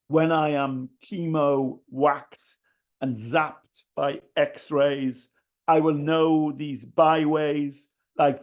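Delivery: measured poetry reading with deliberate pauses; spoken verse, phrases set apart by pauses; poem recital. Acted. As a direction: recite it line by line, weighting the key words. Reads own poem aloud.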